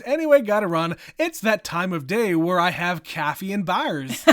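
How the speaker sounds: put-on light Minnesota accent, sing-song vowels; a hint of a Minnesota accent. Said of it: "Betsy's better at the Minnesota accent than I am".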